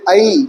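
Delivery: ऐ drawn out as a diphthong a-i; correct ai sound. Shown as a demonstration. Teacher giving the correct pronunciation. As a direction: glide ऐ from a into i. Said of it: "correct pronunciation क्या होगा".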